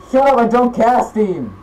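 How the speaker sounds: annoyed gamer complaint; irritated outburst. Real, not acted. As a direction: tell the popup off. Snaps at a Steam popup.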